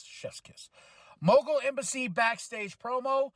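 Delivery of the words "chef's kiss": "Chef's kiss." breathed out with no voice; whispered chef's kiss. Shown as a demonstration. Host savouring the show, whispering "Chef's kiss.".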